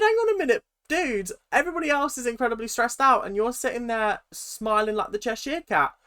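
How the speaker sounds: incredulous thought. Retold or imitated. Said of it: "And I'm thinking".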